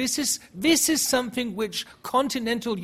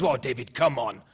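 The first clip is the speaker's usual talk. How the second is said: imitating the backbencher; 2 semitones lower than usual. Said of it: "He says".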